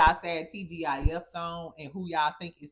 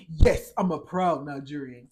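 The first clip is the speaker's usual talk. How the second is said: louder mock Nigerian accent, proud; Nigerian accent impression; 4 semitones lower, 7 dB louder than usual. Vlogger quoting the man in a put-on Nigerian accent. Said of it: "He said".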